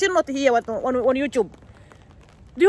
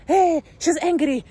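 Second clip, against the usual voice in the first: higher, slow taunting voice; mocking commenter; 5 semitones higher, slower than usual. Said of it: "When I s-, speak my mind".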